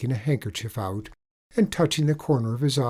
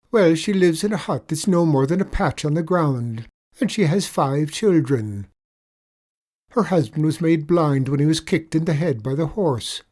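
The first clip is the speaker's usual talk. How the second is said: higher, louder leprechaun lilt, mock pity; sly leprechaun; 6 semitones higher, 7 dB louder than usual. Leprechaun spinning a pitiful tale for the tradesman, higher lilt. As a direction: lay the sorrow on thick.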